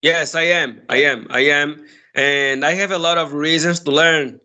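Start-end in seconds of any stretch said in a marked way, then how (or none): none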